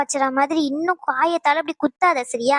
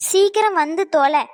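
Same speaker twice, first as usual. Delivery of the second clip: slow insistent order; slower than usual. Acted. Repeats order to Ragu, slower.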